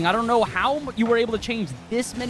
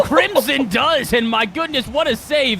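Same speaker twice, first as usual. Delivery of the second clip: excited; 6 semitones higher, 6 dB louder, slower than usual. Real, not acted. Caster reacts to a big save.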